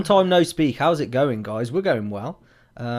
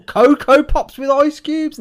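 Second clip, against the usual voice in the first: incredulous; 11 dB louder, slower than usual. Real, not acted. Reading cereal comment incredulously.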